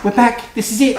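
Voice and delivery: bright loud "We're back"; cheery loud host return. Acted. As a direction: announce it with a bang.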